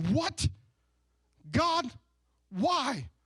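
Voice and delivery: high, pleading mock whine at God; believer's mock outcry to God, pitched high; exasperated complaint. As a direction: throw up your hands and wail why.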